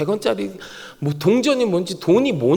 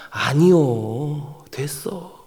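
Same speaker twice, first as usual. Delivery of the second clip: modest refusal; 5 semitones lower, much slower than usual. Acted. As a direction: wave it away gently, drawn out. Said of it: "하나님이 충청도 분이신가?".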